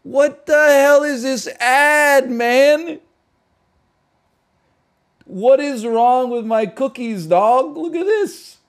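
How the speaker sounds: hammed-up yell at a dumb ad; shouting at the screen in mock fury; outraged yell. Outraged reaction to an ad.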